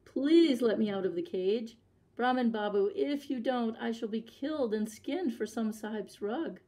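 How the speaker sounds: a touch of a wail, pleading to be let out; lightly voiced tiger begging for help; mild wailing plea. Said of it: "The tiger wailed".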